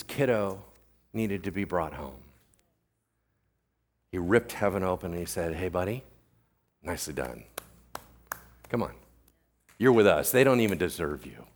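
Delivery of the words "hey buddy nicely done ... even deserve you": tender welcome. Acted. Preacher voices Jesus welcoming Stephen.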